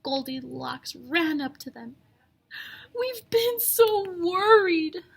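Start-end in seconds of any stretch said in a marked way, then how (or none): 3.0-5.0 higher, louder relieved parents; worried parents. A narrator's reading. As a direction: cry it out with relief. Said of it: "they cried".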